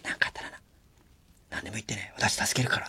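soft whisper meant only for the staff; whispered aside. Shown as a demonstration. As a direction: say it quietly behind the scenes. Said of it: "裏で言えばいいんだよ". (裏でこっそり囁く声)

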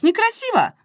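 high indignant exclaim; indignant cry. Acted. A woman protests puffy eyes, high indignant squeal. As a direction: squeal it in mock horror. Shrill protest about looks.

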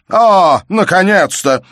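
loud, high mocking exclamation; sarcastic cry. A narrator's reading. Father pounces on his daughter's confession with a loud sarcastic cry. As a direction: pounce on her admission.

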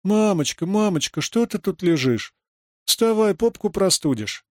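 put-on high, wailing little girl; детский плач; child pleading. A narrator's reading. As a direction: beg mommy to get up. Children wake dead mother.

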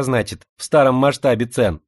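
slushy sh for s. Acted. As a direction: lisp the s in "старом масштабе". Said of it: "своим шепелявым голоском".

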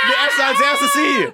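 high, slow frantic shout. Acted. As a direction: shout it in desperation. Trapped, starving, choosing victim.

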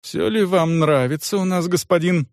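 a hint of a bowing, oily innkeeper; unctuous innkeeper. Innkeeper fawning over his guest, lightly sugary. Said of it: "кланяясь и елейно улыбаясь".

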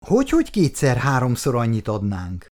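wife questions Bandi's offer in shock; incredulous echo. Acted. Shocked disbelieving repeat.

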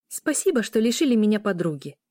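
sulky, sarcastic thanks; grumbling snap. Acted. Niece sulkily snapping at the adults as she leaves. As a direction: throw the thanks back resentfully. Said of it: "ворчливо огрызнулась она".

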